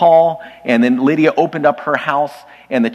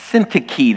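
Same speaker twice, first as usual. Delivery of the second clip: Syntyche with the first syllable punched, SIN-tih-kee; first-syllable stress. Shown as a demonstration. Preacher teaching the congregation a name, Syntyche stressed on the first syllable. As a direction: stress the opening syllable of Syntyche, letting the rest fall. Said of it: "The emphasis is on the first syllable".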